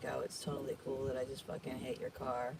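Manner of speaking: very soft, quiet, offhand, breezy and nonchalant. Retelling a driver who tapped the car and waved: imitating a nonchalant driver. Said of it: "wave nonchalantly like".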